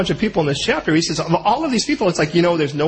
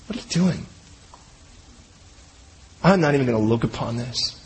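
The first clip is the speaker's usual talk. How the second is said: shocked righteous brothers; 9 semitones lower, 4 dB quieter than usual. Retold or imitated. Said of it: "those other two guys are like".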